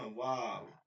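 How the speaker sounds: "ওয়াও" like an English wow, lips rounded. Shown as a demonstration. Teacher likening waw to "How nice", rounded "ওয়াও". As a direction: glide into a round-lipped "ওয়াও". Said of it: "এরকম ওয়াও বলতে হবে".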